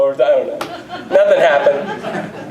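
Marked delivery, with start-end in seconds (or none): 1.1-2.5 slow, laughing it out; drawn-out amused chuckle. Real, not acted. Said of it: "I laughs".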